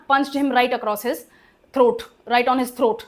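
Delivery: slow, with the weight on throat; emphatic right. Shown as a demonstration. Teacher shows the emphatic right with a punching example. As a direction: drag it out, right on his throat. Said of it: "ये राइट मतलब emphasis है".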